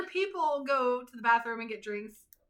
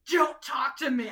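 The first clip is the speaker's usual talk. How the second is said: sharp, louder "don't talk to me"; mock angry retort, a bit louder; angry snap; 5 semitones higher, 8 dB louder than usual. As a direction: cut her off coldly. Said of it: "that is what she said".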